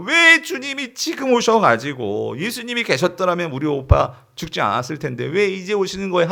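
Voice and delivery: a touch of grieving reproach, acted; lightly acted weeping complaint; tearful lament. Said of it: "하염없이 막 우는 거예요".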